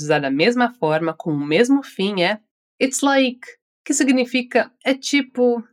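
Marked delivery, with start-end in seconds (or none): 2.8-3.5 it's like left hanging at the end; open ending. Shown as a demonstration. Teacher showing it's like with an open ending. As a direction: trail off on it's like as if continuing. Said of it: "entonação aberta no final".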